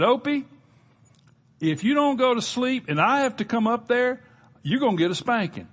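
exasperated dad voice in a sermon story; angry father threat. Acted. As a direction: threaten the boy up the stairs. Father's angrier threat up stairs.

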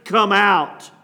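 calling out loudly to the dead man; a commanding call into the tomb; loud cry. Acted. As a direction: cry the name out with force. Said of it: "he cried out with a loud voice".

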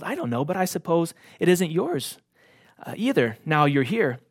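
put-on young king explaining to his friend; lightly voiced young king. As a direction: reassure a worried friend lightly. Caspian explains cheerfully.

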